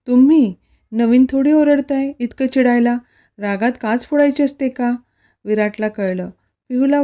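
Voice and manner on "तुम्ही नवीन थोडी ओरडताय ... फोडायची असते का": startled, louder disbelief; surprised. Acted. Wife hearing her husband was the target, surprised. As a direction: blurt it out in shock.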